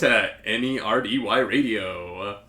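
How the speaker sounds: booming radio station ID; radio announcer voice. Pretend. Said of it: "radio announcer voice".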